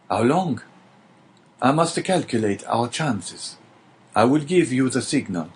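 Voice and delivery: measured, reassuring promise; lightly voiced old prisoner. The old prisoner promises Dante not to forget him, lightly voiced and measured.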